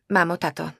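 "mamo, tato" said haltingly, unsure; hesitant. Acted. Daughter nervously addresses her parents before bad news. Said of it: "hesitant then firm address".

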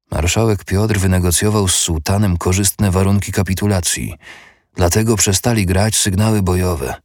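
colourless. Acted. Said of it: "bezbarwnie odpowiedział zakonnik".

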